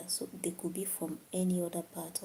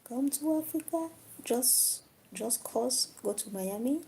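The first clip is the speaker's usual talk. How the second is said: calls building higher and louder; calling out to soulmate; 6 semitones higher, 5 dB louder than usual. Pretend. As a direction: shout across the ocean to a soulmate in Florida.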